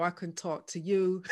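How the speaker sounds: light Bajan lilt; playful hint of a Barbadian accent. Shown as a demonstration. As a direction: say it with a touch of Bajan. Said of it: "I'm gonna g-, talk Bajan now".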